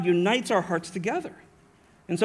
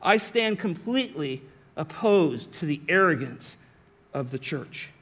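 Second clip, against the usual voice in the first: firm emphasis, slowing and dropping to a hush; emphatic stance. Acted. Preacher voicing Paul's stand against the church's arrogance, emphatic. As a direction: state it emphatically, then let it sink. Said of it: "I'm gonna say my emphatic stance".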